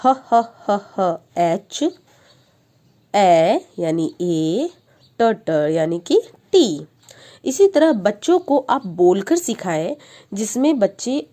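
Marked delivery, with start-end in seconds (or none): 0.1-6.8 slow, repeated ब ब ब ब then letter names; teacher drilling letter sounds; phonics sounding out. Shown as a demonstration. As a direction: stretch each sound for a child. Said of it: "उसके बाद हम बनाएंगे hat".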